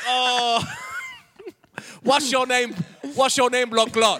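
high, very loud pirate challenge; hammed-up pirate yell; shouting pirate. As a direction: demand it as an over-the-top pirate. Shouting pirate in improvised sketch.

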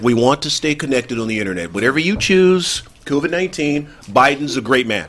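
smooth real estate agent pitch. Pretend. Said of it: "I'm gonna say it in my real estate voice".

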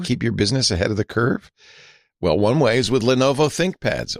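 measured, deliberate ad delivery; sponsor ad read. Real, not acted. Host pitching business laptops to listeners, ad read. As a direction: read it like a polished radio host's sponsor spot.

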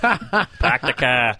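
put-on laughing, slow, drawn-out Boston accent; mock Boston accent. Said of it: "that fucking New England accent".

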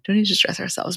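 quiet, gentle calming of a friend; hushed, tender let's-not-stress; soft reassurance. Real, not acted. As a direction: ease them down softly, half-laughing. Reassuring cohost, it's a lot.

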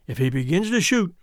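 ordinary delivery

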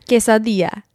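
Spanish pronunciation tipping into Italian; attempted Spanish accent. Shown as a demonstration. Showing off for partner to rate, attempted Spanish accent. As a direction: say quesadilla in an overdone, Italian-sounding Spanish accent. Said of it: "Italian accent?".

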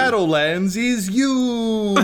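high, slow words through laughter; cracking up while teasing the player; laughing. Real, not acted. Game master laughing at the player's sneaky roll. Table joking about the roll.

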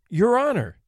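scared homeowner begs the judge, pleading. Acted. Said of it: "he pleaded".

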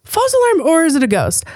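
playful spooky tease. Real, not acted. Teasing listeners about ghost.

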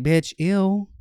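grossed-out high shriek; disgusted. Retold or imitated. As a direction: recoil in disgust. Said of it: "I'm like".

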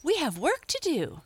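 high, loud chirping reply; merry cry. A narrator's reading. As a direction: call back high and busily. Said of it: "cried the Merry Little Breezes all together".

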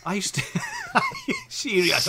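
laughing, earnest mock protest; school liar insisting. Liar swearing on his mother's life to classmates. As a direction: keep swearing it's true through laughs.

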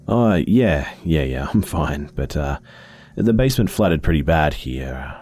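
lightly voiced apologetic dad; a gentle dad calling; caring father.

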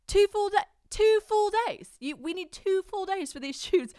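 high, loud incredulous outburst; mock disbelief. Boyfriend's acted shock at two days.

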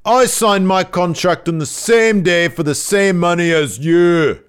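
imitating Gradwell in a bad British accent. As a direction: sneer it like a Brit heel. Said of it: "my bad British accent, my Gradwell voice".

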